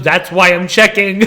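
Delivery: slowed-down imitation of a defensive checker; mock defensive. Checker to classmate with the notes, mock defensive. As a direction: lightly mimic him justifying himself, drawn out. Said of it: "he got defensive".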